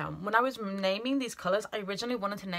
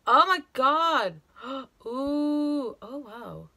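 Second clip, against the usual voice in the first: loud, high delighted gasp; excited; 6 semitones higher, 8 dB louder, much slower than usual. Real, not acted. Sees the shimmer.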